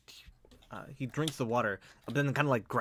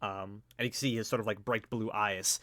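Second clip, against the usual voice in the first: ordinary delivery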